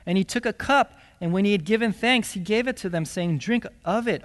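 lively, fast-paced scripture reading. Acted. Preacher reading the Last Supper to the congregation, with drive. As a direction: read the passage with drive.

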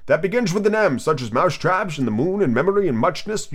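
sleepy creature storyteller; just-woken Dormouse. Acted. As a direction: ramble on woozily. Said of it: "woke up again with a little shriek".

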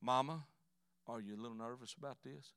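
careful, sympathetic son; compassionate son. Acted. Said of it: "I'm trying to be a compassionate son".

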